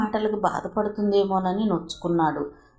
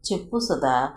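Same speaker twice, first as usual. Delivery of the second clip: low, tender call to his bride; lovingly; 4 semitones lower than usual. Acted. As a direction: coax her gently, with love. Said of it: "ప్రేమగా అన్నాడు". (ప్రేమగా, మృదువుగా)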